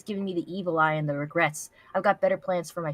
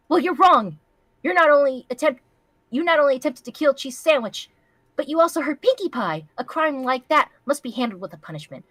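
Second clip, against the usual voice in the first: stern royal verdict; 7 semitones higher, 6 dB louder than usual. Acted. Princess sentencing the villain.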